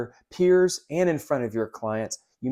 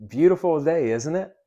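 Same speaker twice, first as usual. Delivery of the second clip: bright, higher, louder "Beautiful day", rising on "isn't it"; cheery small talk; 4 semitones higher, 5 dB louder than usual. Shown as a demonstration. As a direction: chat up the customer about the weather. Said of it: "let me show you".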